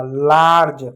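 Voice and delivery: लार्ज with a drawn-out आ, falling; long आ sound. Shown as a demonstration. Teacher confirming the rule, long आ in लार्ज. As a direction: hold the आ in लार्ज. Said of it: "ए को हमने आ पढ़ा".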